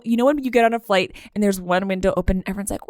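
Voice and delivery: normal talking voice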